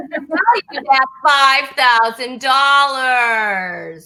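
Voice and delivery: slow, drawn-out prize announcement; game show announcer. Pretend. Host reveals the coveted prize's value, announcer-style.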